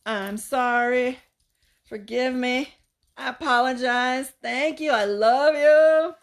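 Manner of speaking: slow, tender healing phrases; Ho'oponopono prayer. Retold or imitated. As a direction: say each phrase slowly like a mantra. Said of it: "I remembered Ho'oponopono".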